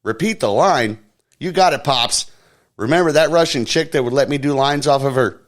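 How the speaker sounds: mock Hunter, high and flippant; Hunter impression. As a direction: brag like a careless party-boy son. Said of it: "his son Hunter said".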